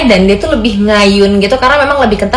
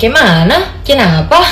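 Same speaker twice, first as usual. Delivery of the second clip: pressed, stressed Batak accent; slower than usual. Shown as a demonstration. Asking a friend where to, in a pressed Batak accent. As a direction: lean on each word, Batak style. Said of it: "logat Bataknya agak ditekan aja".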